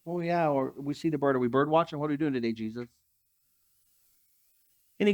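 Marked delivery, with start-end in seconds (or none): 0.1-2.9 lower, offhand disciples voice; lightly voiced, puzzled followers; casual disciples. Disciples answering Jesus, lower and offhand. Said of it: "And his disciples are like".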